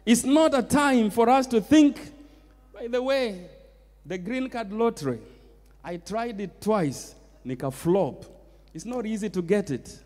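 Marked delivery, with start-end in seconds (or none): 2.7-10.0 much softer, offhand side remark; quiet aside. Real, not acted. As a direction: drop the volume as if confiding in the congregation. Confiding aside on green card lottery.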